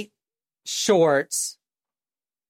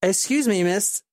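attempted British-Canadian accent, slightly raised; 3 semitones higher than usual. Man approaching a sunbathing woman, tentative British-Canadian accent. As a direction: try a polite British-Canadian lilt. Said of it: "in kind of a British Canadian accent".

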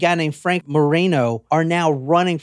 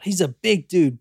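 ordinary talk, nothing marked

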